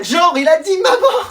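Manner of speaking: high, slow teasing shout; mocking shout. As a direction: drag it out to humiliate him. Mocking classmates.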